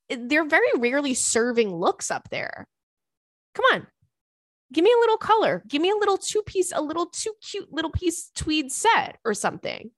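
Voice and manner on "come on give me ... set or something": excited gushing. Real, not acted. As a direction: gush about cute outfits. Gushing about presidential outfits.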